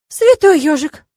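high, loud blurt of shock; shocked exclamation. A narrator's reading. Heroine sees her own double, high loud shock. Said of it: "вырвалось непроизвольно".

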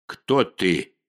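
deep booming rasp in the head; booming grating voice. A narrator's reading. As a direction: boom it out like a huge stone being. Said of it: "гулкий, скрежещущий голос".

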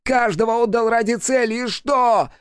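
very high, slow, strained fury; a piercing, enraged demon outburst; demon exploding. A narrator's reading. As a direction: burst out completely. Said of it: "просто взорвался он".

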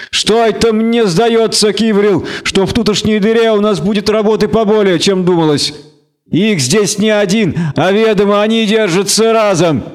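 needling ruffian voice; suspicious tavern thug. A narrator's reading. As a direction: share a dark suspicion with your gang.

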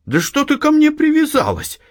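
high, annoyed yet composed retort; annoyed but calm. A narrator's reading. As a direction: brush her off with irritation. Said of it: "с досадой, но спокойно сказала Анна". (с досадой, но спокойно)

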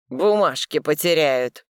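slow, mocking repeat; scoffing. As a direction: scoff the words back. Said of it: "хмыкает Михаил".

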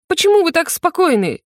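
howling. A narrator's reading. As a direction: wail at the calm general in panic. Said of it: "взвыл Кёгван". (взвыл, выше и громче)

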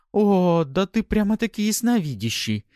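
high, loud delighted cry; bursting with joy. A narrator's reading. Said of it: "обрадовалась женщина".

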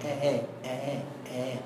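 "آه" short, low and very soft, in isolation; three separate low, quiet demonstrations of "آه"; eased hamza demo. Shown as a demonstration. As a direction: give "آه" as a softened hamza with no lengthening. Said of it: "طب النطق بقى؟".

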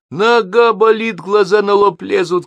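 high, loud, drawn-out yell; shouting. A narrator's reading. Narrator answers his parents from below the balcony, shouting. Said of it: "кричу я".

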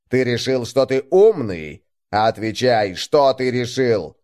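cold enforcer grilling a man; menacing interrogation. Acted. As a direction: press him with each question.

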